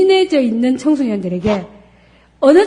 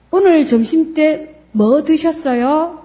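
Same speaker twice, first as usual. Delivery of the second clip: gentle open question; 5 semitones higher, slower than usual. Shown as a demonstration. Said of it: "이렇게 물어보는 것이 개방형입니다".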